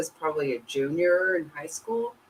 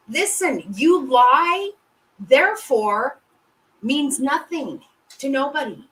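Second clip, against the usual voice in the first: high, incredulous telling-off; outraged scolding; 8 semitones higher than usual. Real, not acted. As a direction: tear into the liar in disbelief. Outraged rant about a liar.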